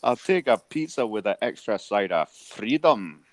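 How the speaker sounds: mock Scottish Fat Bastard growl. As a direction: order like the Austin Powers Scot. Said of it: "That sounded like a little bit of a fat bastard".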